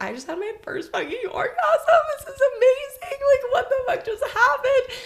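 giddy disbelief spilling out in laughter; laughing euphoria. Retold or imitated. Recalling her first orgasm to her cohost, laughing giddily.

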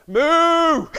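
loud, high mooing cow that cuts in; a cow barging in with a moo; interrupting cow moo. Acted. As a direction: blurt a cow's moo over the top. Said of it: "interrupting cow".

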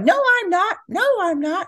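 hammed-up parent denying it; defensive denial. Shown as a demonstration. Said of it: "Instead of like".

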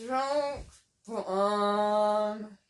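rock bottom in a Scottish accent. Shown as a demonstration. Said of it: "if I said it in a Scottish accent".

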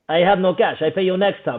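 imitated Russian accent. Russian dodges paying the bet, imitated Russian accent. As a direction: make excuses in a mock Russian accent. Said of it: "that is a pristine Russian accent".

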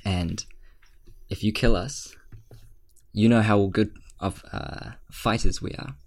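Mithras threatens the king, lightly intimidating voice. Acted. Mithras warns the king, mild menace. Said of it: "as he's talking in this, like, intimidating tone".

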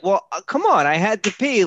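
high, loud mock protest; odd night-time dialect. Husband excusing himself to wife at night, high mock protest. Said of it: "I'm talking in a dialect that you wouldn't be talking at".

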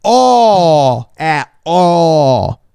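high, hammed-up plea of innocence; mock protest. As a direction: protest it in a fake outraged squeal. Same act, exaggerated protest of innocence.

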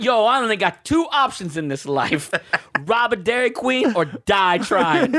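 high, hammed-up hood-movie vow; mock gangster drama. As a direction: declare it melodramatically, slowing at the end. Mocking friend as hood-movie tough guy.

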